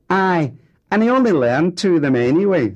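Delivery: high, loud, tearful jibe; tearful but enjoying his guilt; starting to cry. Acted. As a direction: daughter sniping through rising tears. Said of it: "who was beginning to cry".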